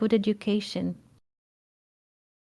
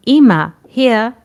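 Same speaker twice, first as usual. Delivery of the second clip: louder call across the market; calling out to granny; 3 semitones higher, 8 dB louder than usual. Retold or imitated. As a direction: call out politely to an old woman. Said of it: "He says".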